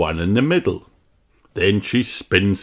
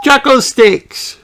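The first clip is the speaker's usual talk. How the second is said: high, loud, slow delighted cry; excited cry; 8 dB louder, slower than usual. Acted. Susie Sheep cries out at the sticks, excited. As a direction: show off the find. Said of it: "she cries".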